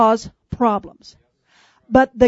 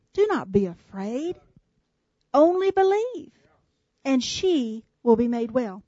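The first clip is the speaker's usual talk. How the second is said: calm voice; 5 dB quieter than usual. Retold or imitated. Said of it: "in a calm voice".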